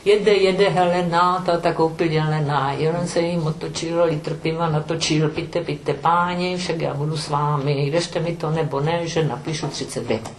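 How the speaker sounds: rhythmic sing-song verse; nursery rhyme. Shown as a demonstration. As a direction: bounce through it like a children's rhyme. Recites children's rhyme. (comptine rythmée)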